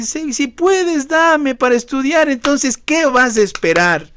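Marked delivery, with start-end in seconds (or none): 0.0-2.3 slow, unsure asking; doubtful hedging prayer. Retold or imitated. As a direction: hedge the request. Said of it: "le estás diciendo al Señor así". (petición lenta y dudosa)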